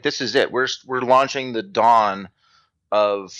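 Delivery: slowing into a mock-grand proclamation; grand early optimism. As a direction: announce it like a historic launch, stretching the big words. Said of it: "I'm positive that they were like".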